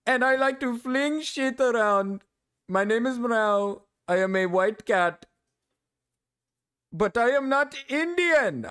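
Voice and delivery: mock Indian accent, pitched high; hammed-up pleading in a put-on Indian accent; Mrao. Streamer poking fun at Mrao denying being Indian, mock Indian accent. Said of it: "that's my poking fun at Mrao".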